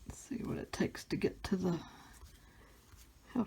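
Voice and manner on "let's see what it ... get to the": whispering. Real, not acted. Opening packs, whispering.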